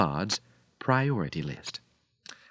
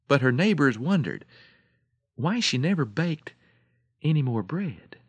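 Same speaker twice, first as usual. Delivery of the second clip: measured fable ending with long pauses; storyteller's deliberate closing; story narration; 4 semitones higher than usual. A narrator's reading. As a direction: wind the tale down phrase by phrase. Closes the fable.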